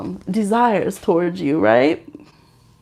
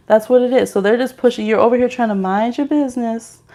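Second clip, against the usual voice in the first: usual speaking voice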